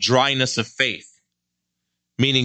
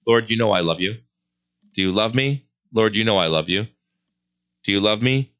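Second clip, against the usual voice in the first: lower, gentle storytelling voice; hushed retelling; 3 semitones lower than usual. Acted. Preacher retells Peter and Jesus.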